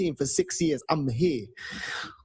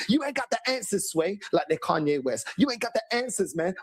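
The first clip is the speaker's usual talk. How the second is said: mock fans. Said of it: "what were they telling me".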